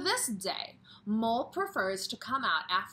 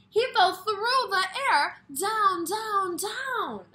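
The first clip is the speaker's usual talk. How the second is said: much higher and louder, each down dropping; falling drama; 12 semitones higher, 11 dB louder, slower than usual. A narrator's reading. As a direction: voice tumbling down with him.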